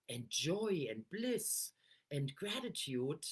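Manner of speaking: slow, savoring joyful words. Shown as a demonstration. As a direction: let the joy ring in each word. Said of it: "you hear it in my voice".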